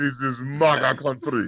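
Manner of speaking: put-on Nigerian accent. Performing a line from a chat message: Nigerian accent. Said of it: "I said in a Nigerian accent".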